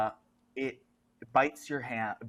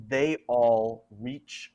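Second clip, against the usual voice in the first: ordinary talk, nothing marked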